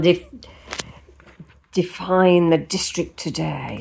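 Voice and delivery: lightly Frenchified reading; put-on French accent. Vlogger reading a Paris guidebook, playful slight French accent. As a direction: read it out with a hint of French accent. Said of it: "I don't know why I'm putting on a French accent".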